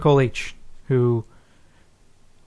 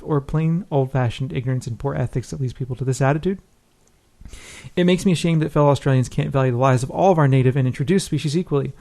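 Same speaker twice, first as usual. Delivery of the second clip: steady, measured read-aloud voice; email read-aloud. Real, not acted. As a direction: read out a listener's letter evenly. Resumes reading the listener's email.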